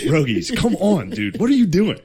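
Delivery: high, loud pleading call; rising mock plea, ending in a laughing squeal. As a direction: holler across the ocean for help. Calling out to America.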